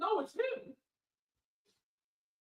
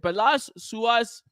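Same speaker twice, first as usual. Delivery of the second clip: Spanish accent; 3 semitones lower than usual. Shown as a demonstration. Non-speaker reading a Portuguese chat message, Spanish accent. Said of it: "like a Spanish accent".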